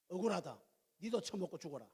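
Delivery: aggrieved Gyeongsang dialect; spiteful grumble in Gyeongsang speech; lightly acted Gyeongsang grievance. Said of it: "경상도 말로 해야 돼".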